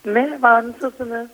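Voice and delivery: hoarse, worn-out voice. Real, not acted. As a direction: speak through a hoarse throat. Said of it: "sesim kısıldı". (kısık ses)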